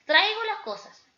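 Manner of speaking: "traigo" hit high and loud; "traigo" stressed. Shown as a demonstration. Teacher stressing "traigo" for the class. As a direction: lean hard on "traigo". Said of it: "decir las palabras en diferentes formas".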